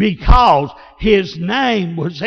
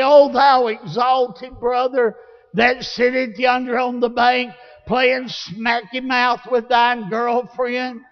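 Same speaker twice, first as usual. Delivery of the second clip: high-pitched mock-lofty plea; mock flowery prayer; 4 semitones higher than usual. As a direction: parody a long, ornate prayer. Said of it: "I didn't go into some flowery speech".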